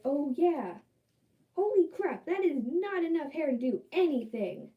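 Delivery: a startled realization; surprised realization. Retold or imitated. Herself realizing there's not enough hair, startled.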